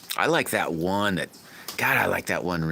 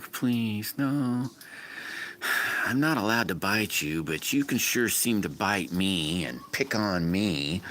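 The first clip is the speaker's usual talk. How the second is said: pleading dog voice; 3 semitones higher than usual. Retold or imitated. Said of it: "Dog's like".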